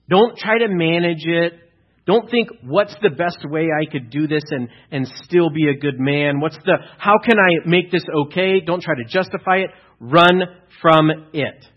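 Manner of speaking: loud, high preaching at full force. Acted. Pastor urges congregation to flee sin, preaching at full force. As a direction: preach it out, urging the church to run.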